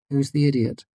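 high bright teasing woman's voice; playful teasing woman. Acted. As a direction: tease her fondly.

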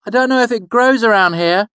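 a boy's voice, put-on doubt; feigned uncertainty. The boy playing along with his mother's pretext, feigning uncertainty. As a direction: sound just unsure enough. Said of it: "with the proper amount of uncertainty in my voice".

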